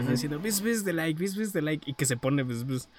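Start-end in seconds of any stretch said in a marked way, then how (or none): 0.4-1.9 bee buzzing. Retold or imitated. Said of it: "como las abejas".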